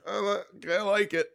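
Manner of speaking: high-pitched, cowed little voice; meek mock reply. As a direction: squeak out an eager-to-please answer. Mimics his cowed reply to instructor.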